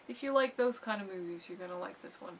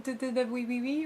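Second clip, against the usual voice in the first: lightly mocking French accent babble; a hint of a jokey French accent, tossed off; 3 semitones higher than usual. Guest mocking what a French accent sounds like, light French accent. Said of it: "you talk like this".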